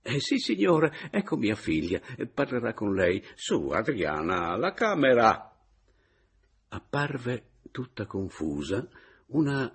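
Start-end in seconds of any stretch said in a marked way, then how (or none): 0.0-5.6 put-on old man urging Adriana to show the room; old landlord. Landlord hands over to daughter.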